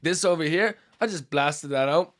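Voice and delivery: light mock Australian accent; attempted Australian accent. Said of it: "I can't do my Australian".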